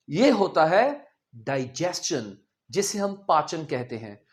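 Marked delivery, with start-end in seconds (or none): 0.1-2.4 डाइजेशन said "daijest-chun" with the t; careful डाइजेशन, dai-jest-chun; correct pronunciation. Shown as a demonstration. Teacher models the right way: डाइजेशन as dai-jest-chun. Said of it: "नहीं होता".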